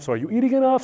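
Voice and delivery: high-pitched imitation of a yelling mom; mom yelling over noise. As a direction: mimic a mother calling over the din. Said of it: "my mom's yelling over the yelling".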